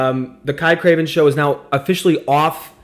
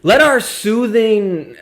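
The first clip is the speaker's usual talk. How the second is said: soothing voice; 4 semitones lower, slower than usual. Shown as a demonstration. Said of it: "soothing, uh, sprightly vocal cords".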